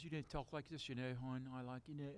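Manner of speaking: high, mocking Baltimore hon voice; Baltimore accent. Mother teasing son in a Baltimore accent. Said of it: "I had a Baltimore accent".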